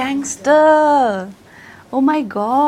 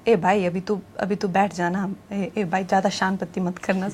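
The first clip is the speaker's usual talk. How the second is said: light Gujarati accent, casual street talk; 3 semitones lower, 4 dB quieter than usual. Shown as a demonstration. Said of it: "it goes a little bit like this".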